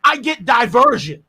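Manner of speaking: "instead, you know what I get" pushed up and out; heated shout. Real, not acted. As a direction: raise your voice, demanding an answer. Heated debate, rising shout.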